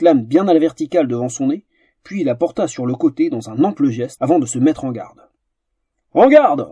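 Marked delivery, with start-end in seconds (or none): 6.1-6.7 sharp, loud, higher command; peremptory order. Acted. Captain opens the duel with a peremptory shout. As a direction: bark it like a fencing referee. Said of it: "ordonna le capitaine d'un ton péremptoire".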